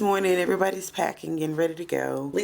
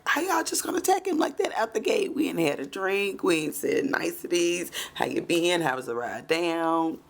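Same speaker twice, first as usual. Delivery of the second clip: indignant friend. Retold or imitated. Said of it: "he's like".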